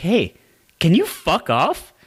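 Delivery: acted earnest, unhurried voice. Retelling how Victor asked a kid to leave: imitating Victor in the most sincere way. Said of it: "in the most sincere way possible".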